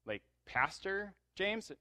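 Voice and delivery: high, slow "Pastor James?"; can't believe it, drawn out; stunned officer; shocked disbelief. Retold or imitated.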